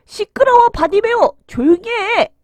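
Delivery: loud, high, cross telling-off; scolding shout. A narrator's reading. Crowd hushes the noisy blind beggar, scolding shout. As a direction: shut him up with an angry yell. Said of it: "사람들이 욕하고 꾸짖어도".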